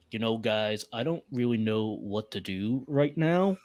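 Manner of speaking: lightly put-on brooding loner; a hint of an actor imitating Noah; mild mock brooding voice; Noah-style impression. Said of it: "he's doing an impression of Noah".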